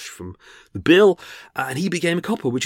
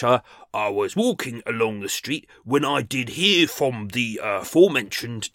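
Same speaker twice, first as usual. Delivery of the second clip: a hint of a Cockney copper reading evidence in court; lightly voiced copper, pompous court English; posh Cockney copper. Copper giving evidence in court, lightly voiced pompous Cockney. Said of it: "misheard English".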